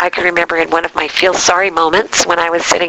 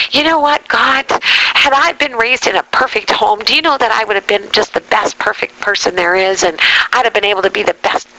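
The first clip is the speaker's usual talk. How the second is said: self-pitying whining; 3 semitones higher than usual. Retold or imitated. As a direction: complain to God, retelling your own self-pity. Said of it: "whining and feeling sorry for myself".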